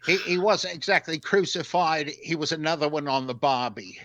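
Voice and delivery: lightly put-on Australian accent, tongue in cheek; a mock Aussie accent played for laughs. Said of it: "a New Zealand or Australian accent for me".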